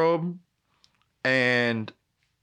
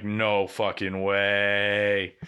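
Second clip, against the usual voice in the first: slow stunned disbelief; 4 semitones lower, much slower than usual. Retold or imitated. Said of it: "I'm like".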